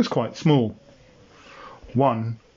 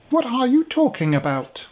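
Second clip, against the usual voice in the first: higher, offended little dinosaur voice; indignant dinosaur; 10 semitones higher than usual. Acted. Dinosaur snaps back at Bob, higher and offended. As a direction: bristle at the question.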